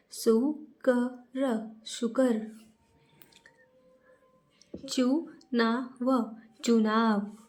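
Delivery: slow sounding out, one syllable at a time; slow syllable reading. Shown as a demonstration. Teacher reading syllables slowly aloud for kids. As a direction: read each syllable slowly, then blend. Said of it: "तो अब हम इसे पढ़ते हैं".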